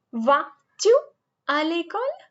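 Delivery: vas-tu à l'école with a rising end; French question. Shown as a demonstration. Teacher demonstrating inversion to students, rising. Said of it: "Isn't that simple?".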